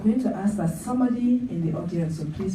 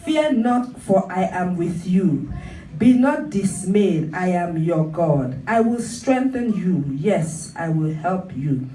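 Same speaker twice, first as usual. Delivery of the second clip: emphatic preaching; 4 dB louder than usual. Real, not acted. Preacher assuring the congregation God is with them, emphatic preaching. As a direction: preach it out firmly, phrase by phrase.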